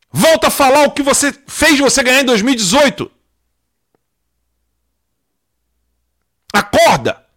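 shrill outburst, very loud and high-pitched. Telling someone to go back to talking about crime: a venting outburst. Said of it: "Desculpa o desabafo".

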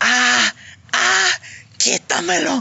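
mock screaming. Telling the story of the cat landing on a woman's back, reenacting a scream. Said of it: "Y empezó a gritar".

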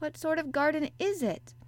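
keen, pressing tone. Colin presses Mary about the locked garden, eagerly. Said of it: "Colin persisted eagerly".

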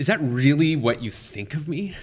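taken-aback, stunned, shocked disbelief. A pastor recounts his reply to someone who called his life perfect: retelling a shocked reply.

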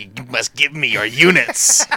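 evil, scheming alien villain voice. Mocking a former president during a conversation, evil Sebulba-style alien voice. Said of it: "sounds like an evil alien character in Star Wars universe who's like".

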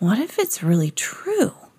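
soft, hushed, confiding half-whisper. A boy speaks to Molly; half-whispered. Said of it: "he whispered to Molly".

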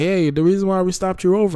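put-on Midwestern accent. Retelling what a cop said at a man's door, in a Midwestern accent. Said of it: "this is my like Midwest Midwestern accent".

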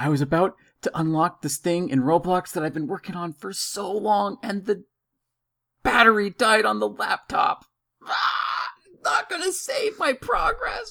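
acted very high, swooping, wailing, sobbing meltdown. Retelling a son's outburst over lost game progress: imitating son freaking out. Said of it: "he's just, like, freaking out".

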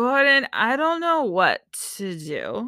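mock drunk-sounding, accented woman's voice. Friends recalling a woman from a show, imitating her drunk-sounding voice. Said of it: "she always sounds drunk".

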